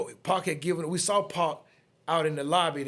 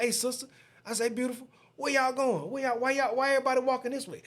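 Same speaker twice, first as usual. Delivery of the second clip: higher flirty call-out; sweet-talking call; 9 semitones higher, faster than usual. Retold or imitated. Calling to a passing woman from the car, higher and flirty. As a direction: charm her from the car window.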